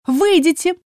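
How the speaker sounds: high put-on girly voice; hammed-up thin voice. A narrator's reading. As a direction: squeak it out in a fake falsetto. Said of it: "постарался сказать наигранно тонким голоском".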